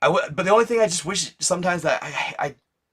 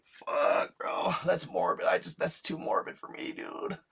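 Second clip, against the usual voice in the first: soft, breathy, close to tears; quiet upset reaction to a grim story; hushed dismay; 2 semitones higher, 8 dB quieter, slower than usual. Retold or imitated. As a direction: say it under your breath, shaken. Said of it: "I'm like".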